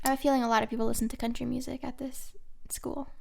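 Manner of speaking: whisper. Real, not acted. Whispered aside about country fans.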